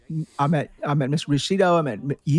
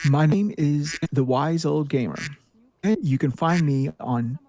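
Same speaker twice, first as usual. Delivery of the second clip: professor voice; 3 semitones lower than usual. Pretend. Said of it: "Let me put my professor voice on".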